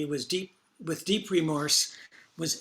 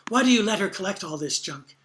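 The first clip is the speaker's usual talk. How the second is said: upset, louder accusing daughter; exclaiming; 3 semitones higher, 5 dB louder than usual. Retold or imitated. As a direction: demand it, frustrated and upset. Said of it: "exclaimed the daughter".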